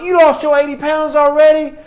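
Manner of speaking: high, loud mock disbelief; incredulous. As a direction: challenge a quitter with exaggerated amazement. Acts out challenging a quitting client.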